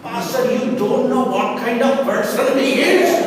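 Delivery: exasperated objection that climbs in volume; wife's protest. Acted. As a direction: protest to the pastor, rising at the end. Acts out wife protesting to pastor.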